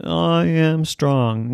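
slow strong declaration. Acted. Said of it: "Now you try it".

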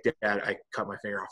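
imitating an unbothered son, understated; remaining calm. Son telling dad he is hurt, mock-calm and matter-of-fact. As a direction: report an injury calmly, no alarm at all. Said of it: "he's, like, remaining calm".

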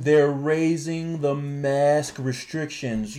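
stretched-out words, weighty and deliberate; slow emphasis. Real, not acted. Host repeating mask news to co-hosts, slowly emphatic.

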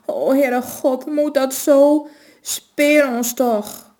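put-on slow, high, quavering plea of an old woman. A narrator's reading. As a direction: groan it out, begging for mercy. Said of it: "kreunde ze".

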